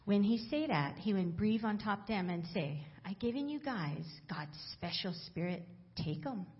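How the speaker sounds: Bible read aloud in Hawaiian Pidgin. Acted. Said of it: "from the Hawaiian Pidgin Bible".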